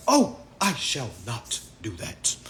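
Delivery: slow, lightly affected London English; slightly hammed-up British accent; put-on British accent. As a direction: refuse like a mock-proper British man. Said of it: "I talk like a British man from London".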